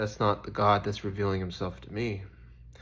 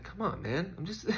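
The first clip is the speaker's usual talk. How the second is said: high, loud, pleading with the critics; exasperated pleading; 9 semitones higher, 7 dB louder than usual. Retold or imitated. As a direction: beg to just be left here, voice way up. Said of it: "I'm just like".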